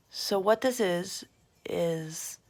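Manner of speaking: talking while doing mascara; distracted, mouth held for mascara; applying mascara. Real, not acted. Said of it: "I'm trying to talk and do my mascara at the same time".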